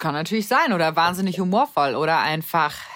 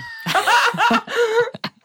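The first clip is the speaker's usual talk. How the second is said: high shrieking laugh. Real, not acted. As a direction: burst into a squealing laugh.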